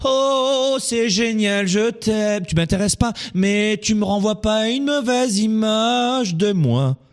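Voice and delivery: high, drawn-out mock adoration; mock gushing admirer. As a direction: parody someone cooing over the poor. Mimics people idealising poverty.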